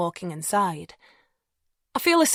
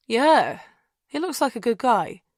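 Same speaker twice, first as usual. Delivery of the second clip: musing; 4 semitones higher than usual. A narrator's reading. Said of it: "Tom muses".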